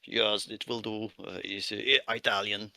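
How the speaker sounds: halting, polite foreign worker asking the way; Russian accent. Acted. Miner NPC continues.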